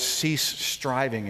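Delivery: drawn out slowly and deliberately; preacher lingering on the translation; slow emphasis. Shown as a demonstration. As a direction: stretch each word for weight. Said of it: "some of your Bibles may have the words".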